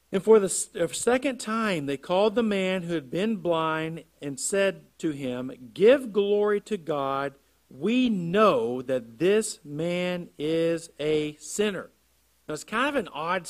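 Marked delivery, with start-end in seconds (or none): 0.1-11.9 loud, emphatic Bible reading; slow, deliberate stresses as the reading goes on; scripture reading. Acted. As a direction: read the verse out to the congregation, weighting key words. Reads scripture aloud to congregation.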